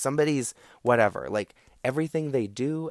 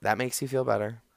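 sarcastic calm. Shown as a demonstration. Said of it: "you say, like".

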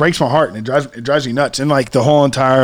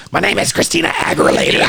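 mock diva voice; 2 semitones higher than usual. Mock introduction as the singer.

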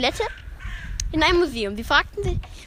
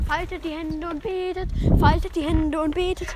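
priest's sing-song call; 4 semitones higher than usual. Acted. Priest telling the congregation to pray, chanting. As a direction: intone it like a priest.

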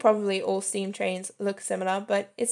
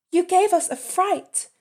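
raised, fussing wife voice; wife's voice; 9 semitones higher, 4 dB louder than usual. Retold or imitated. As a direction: play the startled wife, pitched high. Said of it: "the wife said".

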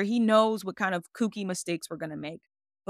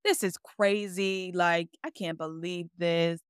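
retold sadness; slower than usual. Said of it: "I felt so sad".

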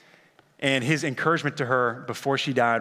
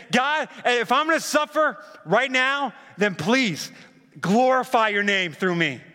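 Jesus praying; 8 semitones higher than usual. Acted. Preacher voices Jesus praying.

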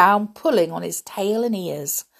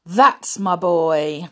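proud; 5 dB louder, slower than usual. Acted. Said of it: "Baloo cried proudly".

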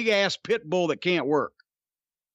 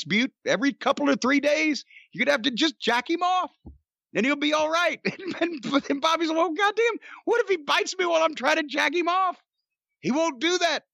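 punchline delivered high, on the edge of laughter; amused, high-pitched retelling; laughing while talking; 9 semitones higher than usual. Real, not acted. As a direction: push through the giggles to finish the story. Cracking up at his own punchline.

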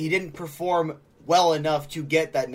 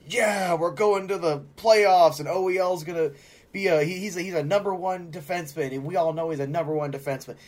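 higher, hyped-up mock fan voice; overexcited fans; 3 semitones higher than usual. Host imitates optimistic hockey fans, hammed-up excitement. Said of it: "the ones that were like".

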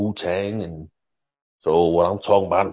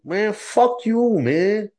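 high, slow, drawn-out fuck you; angry; 11 semitones higher, much slower than usual. Real, not acted. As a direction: spit it out at the critics. Angry at academics dissing rappers.

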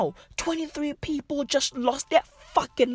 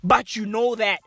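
mock motivational coach. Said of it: "sounding like a fucking motivational speaker".

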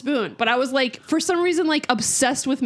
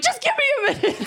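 high-pitched mock wail; squealed through laughter, as if crying; sobbing; 13 semitones higher, much faster than usual. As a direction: imitate a tearful plea for space. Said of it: "I was sobbing".

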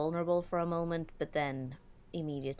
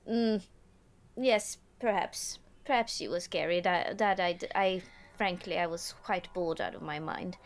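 put-on halting, louder mixed German-Swedish accent; broken German-Swedish-English accent; 3 semitones higher, 4 dB louder than usual.

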